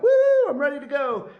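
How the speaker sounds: high, bright burst of pep; energized woo. Retold or imitated. After coffee, imitating his own burst of energy. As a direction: jump up to full energy.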